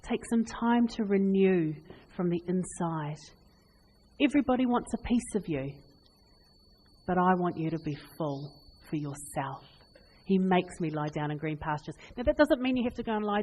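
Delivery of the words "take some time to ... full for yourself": gentle divine voice. Acted. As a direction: speak it like a caring shepherd. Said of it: "and say".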